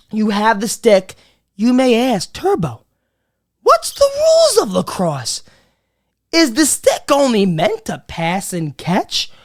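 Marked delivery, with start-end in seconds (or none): 2.3-9.3 mock naive viewer. Imitating a viewer asking.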